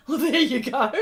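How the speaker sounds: tickled, laughing response; amused laugh. Real, not acted. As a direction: chuckle out a reply. Laughs at comment just read.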